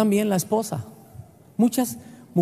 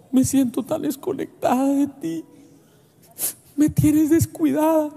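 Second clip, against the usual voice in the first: wife's voice; 6 semitones higher than usual. Retold or imitated. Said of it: "mi esposa dice".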